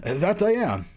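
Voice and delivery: lightly theatrical introductions; acted story reading. Director meets the bodyguards, lightly acted story reading. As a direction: play each character's line with slight stage flair. Voices game characters.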